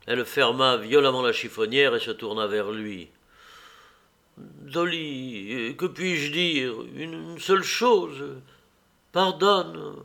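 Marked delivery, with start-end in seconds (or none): 4.4-10.0 pleading. Acted. Husband begging forgiveness.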